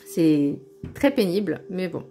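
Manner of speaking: voix coupée par le hoquet; avec le hoquet. Real, not acted. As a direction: parler entre deux hoquets. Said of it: "j'ai le hoquet". (hoquet réel, parole hachée)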